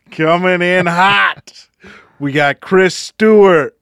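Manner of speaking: lightly voiced arena announcer; hockey announcer. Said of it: "hockey announcer voice".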